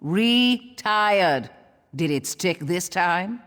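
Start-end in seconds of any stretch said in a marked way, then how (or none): 0.0-1.5 RETIRED drawn out slowly, syllable by syllable. Acted. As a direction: stretch both halves of RETIRED, re... tired. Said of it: "I could say it slowly".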